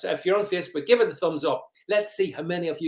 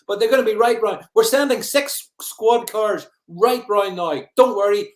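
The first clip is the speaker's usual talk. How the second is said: mock police dispatcher; 4 semitones higher, 6 dB louder than usual. Plays police answering the informer.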